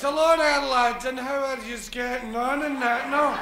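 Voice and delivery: loud hearty pub hello; hearty greeting. Acted. Jesus greeting the apostles, hearty and loud. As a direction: greet the lads warmly and loud.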